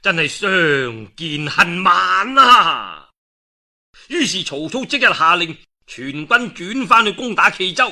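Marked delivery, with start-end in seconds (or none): 0.0-3.1 laughing, then a loud elated cry; a pleased lord laughing, then shouting his delight; delighted laughter. Acted. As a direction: laugh with joy and call it out. Cao Cao delighted, laughing exclaim.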